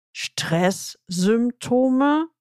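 a drawn-out, very slow, lightly voiced disbelief; aghast question. Client stunned by the coach's question, slow incredulous echo. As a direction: echo the word slowly as if stunned. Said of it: "fragte mich entgeistert".

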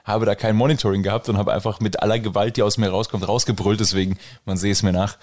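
hoarse from shouting last night; slightly hoarse, strained voice; heisere Stimme. Real, not acted. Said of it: "Meine Stimme ist ein bisschen am Sack". (vom Brüllen heiser)

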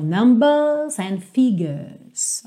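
"numbers and figures" without curled R; British, no R. Shown as a demonstration. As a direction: drop the R, British style. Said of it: "não vou enrolar o R".

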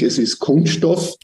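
correcting, with the first syllable of "Kunststoff" stressed; stress on Kunst. Real, not acted. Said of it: "Betonung auf Kunst".

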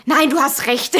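mit Nachdruck einlenken; nachgespieltes Abwiegeln. Retold or imitated. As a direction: die Diskussion abwürgen, halb im Scherz. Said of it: "und dann so". (abwiegelnd nachgespielt)

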